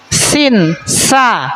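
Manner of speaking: sin then sa, each sound said cleanly and apart; letter demo. Shown as a demonstration. Teacher models letters for pupils, clear and deliberate. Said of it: "kalian praktekin".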